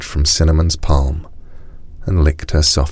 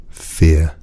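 tiger voice. A narrator's reading. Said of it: "said the tiger".

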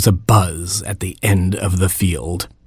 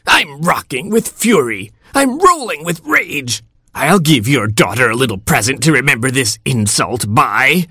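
high, wicked witchy hornet; old hornet fury; 5 semitones higher than usual. A narrator's reading. Wicked hornet curses the frogs, high and spiteful. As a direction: rant like a vengeful old crone. Hornet rages at being uninvited.

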